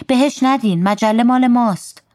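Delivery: high-pitched, urgent yell of protest; storyteller voicing a girl's shout; child's protesting shout. A narrator's reading. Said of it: "مینو داد زد".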